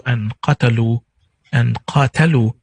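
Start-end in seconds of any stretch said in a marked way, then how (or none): 0.4-1.0 qatalu with short A vowels, qa-ta-lu; contrasted Arabic word. Shown as a demonstration. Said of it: "these are three different words". 1.8-2.5 qatalu with a longer first vowel, qaa-ta-lu; contrasted Arabic word. Shown as a demonstration. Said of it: "these are three different words".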